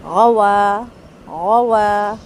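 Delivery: غوا with lips fully rounded. Shown as a demonstration. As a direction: round the lips completely for واو. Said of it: "واو کے لیے ہونٹ مکمل گول ہوں گے". (غوا، ہونٹ مکمل گول)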